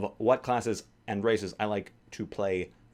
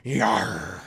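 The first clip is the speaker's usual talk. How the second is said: hearty pirate Yar; 4 dB louder than usual. Shown as a demonstration. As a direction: bark it out like a pirate. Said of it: "I can do my pirate voice".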